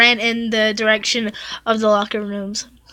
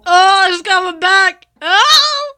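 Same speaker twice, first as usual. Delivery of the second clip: dread; 8 semitones higher, 5 dB louder, slower than usual. Real, not acted. Dreading the sad part.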